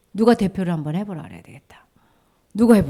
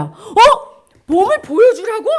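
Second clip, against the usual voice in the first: high, loud questioning; startled disbelief; 12 semitones higher, 9 dB louder, slower than usual. Acted. Lepers puzzled by Jesus's order, startled and high. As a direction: blurt it back, baffled.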